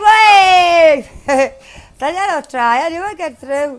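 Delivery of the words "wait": loud, drawn-out cry of wait; panicked cry. Real, not acted. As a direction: shout it in alarm. Gamer panics mid-race.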